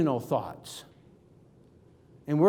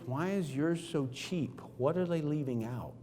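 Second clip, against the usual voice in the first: pointed question; 3 semitones lower, 8 dB quieter than usual. Shown as a demonstration. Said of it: "I normally say this phrase".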